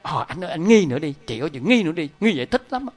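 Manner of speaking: lightly voiced coaxing demon; a hint of a sly tempter; tempting demon voice. Voices the demon urging doubt.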